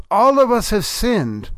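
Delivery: "All" lifted high and leaned on; stress on all. Real, not acted. Preacher to congregation, pressing that everyone has sinned, stress on "All". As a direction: hit "All" hard, then let the rest fall. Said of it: "emphasis on that word all".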